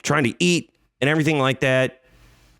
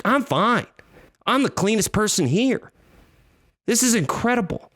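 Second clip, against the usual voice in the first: higher, giddy self-praise; smug delight; 11 semitones higher than usual. Retold or imitated. Walking into Walmart after covid, mock smug delight. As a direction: beam like the healthiest man in the store.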